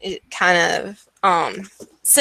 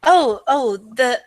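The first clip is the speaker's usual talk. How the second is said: put-on higher, hesitant old-woman voice; old pastry seller; 4 semitones higher than usual. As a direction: play a chatty elderly villager, pitched up. Game master plays old pastry seller.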